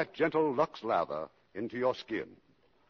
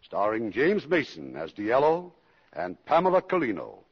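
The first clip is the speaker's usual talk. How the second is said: commercial pitch; 4 dB louder than usual. Acted. Host reads Lux commercial.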